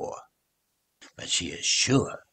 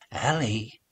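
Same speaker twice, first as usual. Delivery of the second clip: gentle; 3 semitones higher than usual. Acted. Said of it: "says her mum in a gentle voice".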